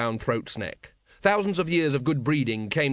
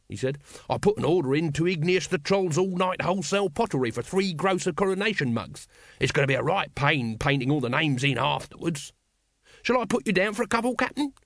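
raised, lilting salesman's patter; chatty street vendor; 3 semitones higher than usual. Acted. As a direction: muse aloud, then pitch the sale higher.

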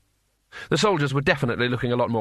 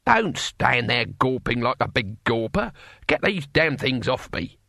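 lightly voiced bossy old man; slow, grumpy orders in an old man's voice; a touch of cantankerous old warrior; feisty old man, impatient. Old man orders Rincewind about.

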